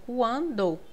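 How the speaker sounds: quando as kwan-do, with nasal A; U sounded. Shown as a demonstration. Teacher sounds out quando for learners, U audible. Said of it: "eu escuto esse U".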